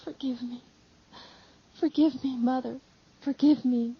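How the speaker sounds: tearful, broken pleading for forgiveness; a son sobbing to his mother for forgiveness; sobbing plea. Acted. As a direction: beg through sobs. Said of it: "he says, sobbing".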